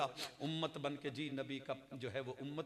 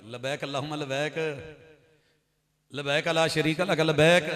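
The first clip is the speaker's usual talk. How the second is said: lightly imitated old woman reciting with Punjabi accent; Punjabi-accented talbiya; 12 dB louder than usual. Old woman recites behind him on flight, light Punjabi accent. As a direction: recite simply, with a hint of Punjabi. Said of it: "Punjabi लब लहजा जैसे सीखी थी".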